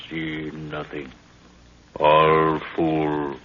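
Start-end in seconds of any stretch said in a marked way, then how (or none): 2.0-3.4 louder scornful jab at the guards. Acted. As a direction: spit out contempt. Mocking the sleeping guards.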